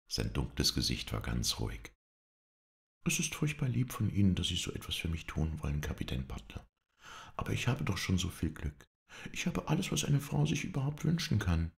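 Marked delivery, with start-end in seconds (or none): 3.1-11.7 higher, bright protesting lady's voice; Melanie. Acted. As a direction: lift it, modestly protesting. Melanie dankt Red. (höhere, verlegen protestierende Frauenstimme)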